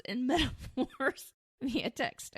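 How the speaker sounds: a laugh bubbling up mid-phrase; still giggling. Real, not acted. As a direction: speak through a real giggle. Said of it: "I'm still giggling".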